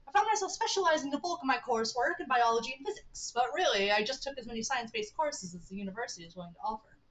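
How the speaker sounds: lightly voiced enthusiastic scientist; a hint of an academic, pitch lifted at first; Stanford Pines. Voices Stanford on college studies.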